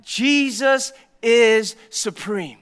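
loud, slow declaration from the pulpit; loud proclamation. Real, not acted. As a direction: proclaim it to the whole room, slowly and loudly. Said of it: "I'm gonna say it out loud".

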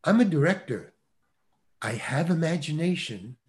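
slow, word by word, long pauses between phrases; measured reprimand. Retold or imitated. Director corrects casting director about his actor, slow measured reprimand. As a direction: imitate a director spelling it out with strained patience.

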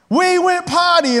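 high, slow disbelieving repeat; stunned echo. Retold or imitated. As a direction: say it back in shock. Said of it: "I was like".

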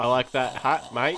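lightly put-on Aussie accent; Australian accent. Shown as a demonstration. Showing the co-host how to do an Australian accent. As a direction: demonstrate a simple Australian accent. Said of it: "That's how you do an Australian accent".

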